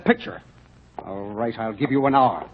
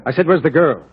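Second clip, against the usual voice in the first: angry demand; 5 semitones higher, 4 dB louder than usual. Acted. Buyer repeats demand, angered.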